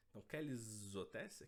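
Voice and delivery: "quelles hôtesses" linked with a z sound, kelz otess; liaison. Shown as a demonstration. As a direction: join "quelles" and "hôtesses" with a clear z. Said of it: "a gente vai fazer la liaison".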